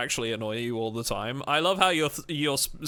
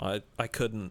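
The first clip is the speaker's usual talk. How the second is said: ordinary talk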